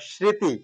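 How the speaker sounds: স্মৃতি said as "sriti", with a dental s and no m; srriti pronunciation. Shown as a demonstration. Teacher giving the correct reading of স্মৃতি, calm. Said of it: "আমরা স্মৃতি উচ্চারণ করে থাকি".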